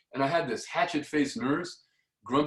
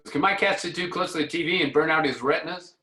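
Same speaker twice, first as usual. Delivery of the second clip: lightly voiced worried cat lady; fussy cat owner; 4 semitones higher, 3 dB louder than usual. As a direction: ask it like a fretful pet owner, slightly higher. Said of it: "Woman come in, she goes".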